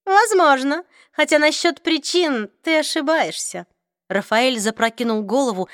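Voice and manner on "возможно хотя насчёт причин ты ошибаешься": cold vampire voice. Acted. Raphael answers Clary.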